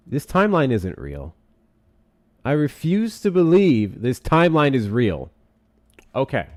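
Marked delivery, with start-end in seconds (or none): 2.4-5.3 higher, slowed incredulous protest; drawn-out disbelieving insistence; emphatic disbelief. Real, not acted. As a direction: refuse it slowly, pitch lifted. Disbelief at the timeline page.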